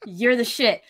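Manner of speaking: slow, sweet mock praise. To Shadow, showing the praise she wanted, slow and sweet. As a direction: act out the praise she wanted to hear, slowly. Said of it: "I would've been cool if you were like".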